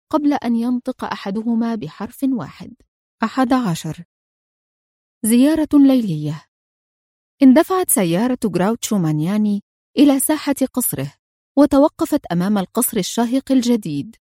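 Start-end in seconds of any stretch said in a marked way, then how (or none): none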